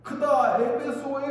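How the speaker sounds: high, slow mock crowd cry; imitated crowd shout. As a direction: call it out like one voice in a mob. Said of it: "지금 외치는 분이 있어요".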